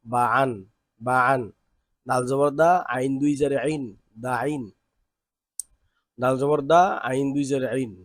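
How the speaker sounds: teacher reading aloud for the class to follow; recitation drill. Shown as a demonstration. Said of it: "শুনি কিভাবে পড়তে হয়". (ক্লাসে সুর করে বানান পড়া)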